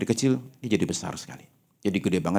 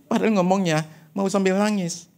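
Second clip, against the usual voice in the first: laughing; 8 semitones higher than usual. Real, not acted. Joking about fake churchgoers.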